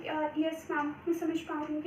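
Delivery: timid, too quiet answer; overly soft, hesitant reply. Shown as a demonstration. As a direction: mumble it meekly like a nervous candidate. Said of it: "ये भी नहीं बोलना कि बहुत धीमे बोलो".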